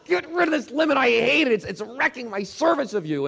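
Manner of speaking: acted high-pitched, urgent plea; crying out to God. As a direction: beg loudly in exasperation. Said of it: "I cried out to God".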